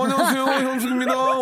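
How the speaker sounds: high laughing Hyun-sook greeting; Hyun-sook impression. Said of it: "지금 이게 현숙이에요".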